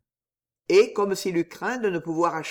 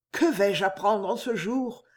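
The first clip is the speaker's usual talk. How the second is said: higher, halting, overwhelmed; trembling stammer; 6 semitones higher than usual. A narrator's reading. Girl at the tomb dreading the secret, stammering. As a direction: stumble through it, afraid of the answer. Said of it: "bégaya".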